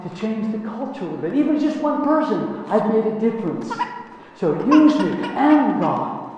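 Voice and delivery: rising, earnest plea to be used; eager prayer. Shown as a demonstration. Asking God to use him at work, earnest and eager. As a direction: lift the voice, pleading with hope. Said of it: "pray the answer".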